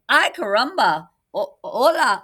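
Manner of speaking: put-on high, loud baby chick cry; baby chick greets its new mama; cried out. Baby chick crying out to Jack, high and loud.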